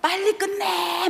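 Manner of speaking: high, slow, demanding whine; mimicking rude student. Mocking a rude client who tells the professor to hurry, high demanding whine. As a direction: imitate the bratty student. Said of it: "막 이래".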